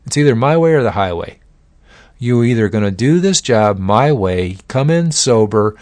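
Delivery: a firm, pointed warning from the boss; boss's hard ultimatum. Retold or imitated. Boss warning drunk employee John, firm ultimatum. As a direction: lay down the law to the employee.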